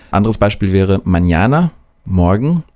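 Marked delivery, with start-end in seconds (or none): 1.0-1.7 mañana with the ñ said as an n-j glide. Shown as a demonstration. Teacher giving German learners an example word, mañana with Ñ as NJ. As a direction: say mañana as "manjana". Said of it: "wird deshalb ausgesprochen wie ein N J".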